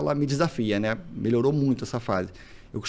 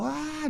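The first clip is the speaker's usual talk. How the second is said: mock child scream; 14 semitones higher, 6 dB quieter than usual. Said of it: "Aí ela gritou".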